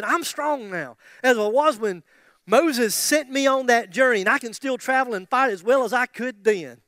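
put-on loud, forceful boast of an old warrior; lightly acted defiant old soldier; Caleb. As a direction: proclaim your strength with force. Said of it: "let me tell you what Caleb says".

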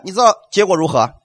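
normal talking voice

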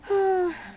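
high breathy sigh; falling "ohh" of a sigh. Acted. Heat of the desert, weary reaction.

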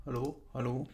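hollow echoing voice over the line; doubled echo. Real, not acted. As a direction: sounds like his own voice bouncing back. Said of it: "sonst hörst du dich doppelt".

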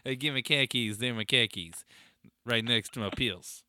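put-on mild Boston accent on the khakis; lightly done Boston guy talking about his pills; a touch of Boston accent. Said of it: "how to say pills in a Boston accent".

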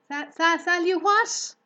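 high, loud stammering cry; startled cry. A narrator's reading. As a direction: stumble over the word in shock. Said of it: "he cried".

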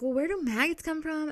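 alarmed question. Retold or imitated. Retold question to mom.

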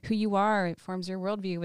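normal talking voice

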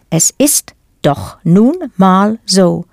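"Es ist doch nun mal so." drawn out slowly; slow, relishing delivery. Shown as a demonstration. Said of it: "my favorite example".

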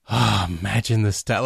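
low, understated musing with an opening "oh"; dawning realisation. Retold or imitated. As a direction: retell it as a thought just occurring. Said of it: "it occurs to him as Steve Jobs is walking out".

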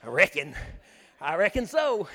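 a light mock Texan drawl on reckon. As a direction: play Paul as a lazy-drawling Texan, lightly. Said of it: "Paul was a Texan".

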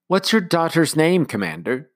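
high, crisp nanny question; brisk and inquisitive; prim nanny. Acted. Nanny asking the commander, high and brisk.

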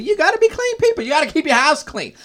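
high, loud preachy insistence; emphatic preaching. Real, not acted. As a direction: preach it to the congregation.

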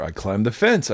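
lightly voiced little kid; a hint of a small child answering; three-year-old voice. Three-year-old explains himself to mom, mildly childlike. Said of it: "I said in my three-year-old voice".

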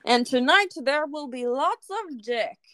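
a light weather reporter voice; weather presenter voice. Shown as a demonstration. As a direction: announce it like the evening forecast. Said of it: "sound like a news weather person".

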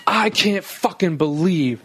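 slow, incredulous mock rant; imitated ranting. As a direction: go off like an aggrieved rich man, drawing out the words. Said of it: "he was just going off".

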